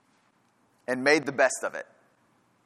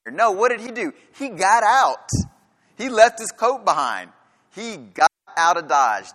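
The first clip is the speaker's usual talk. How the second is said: higher, louder, urgent preaching; rising fervor; 5 semitones higher, 4 dB louder than usual. Real, not acted. Preacher to congregation about Joseph fleeing, excited. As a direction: drive home how Joseph fled.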